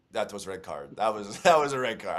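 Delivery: imitated Russian accent, said with amusement; lightly put-on Russian accent. Telling how an Italian friend ruled on the card, light Russian accent. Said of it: "did a Russian accent".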